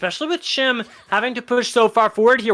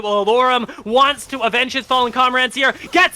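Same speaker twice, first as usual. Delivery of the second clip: rapid, raised-pitch fight call; play-by-play; 2 semitones higher than usual. Real, not acted. Caster calling a bot lane fight, rapid play-by-play. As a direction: race along with the action, building.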